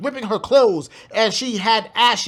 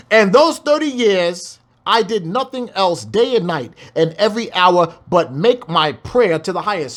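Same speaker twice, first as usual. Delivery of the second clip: scripture reading. Acted. Reads scripture aloud.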